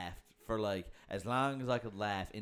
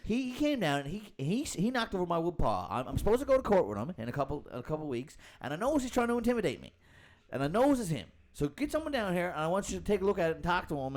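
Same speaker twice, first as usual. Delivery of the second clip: imitating the caller; 8 semitones higher, 4 dB louder than usual. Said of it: "He was like".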